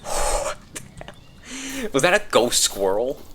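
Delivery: sudden high loud shriek; jump-scared cry, then disbelief; startled shriek. Real, not acted. Ghost squirrel jump scare.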